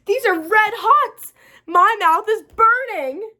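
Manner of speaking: high, loud, slow cry of distress; yelled. Acted. Girl yelling at cinnamon candy burning her mouth, loud slow wail. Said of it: "I yelled".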